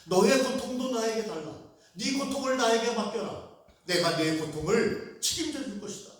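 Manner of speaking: earnest Jesus voice. Acted. Preacher voicing Jesus.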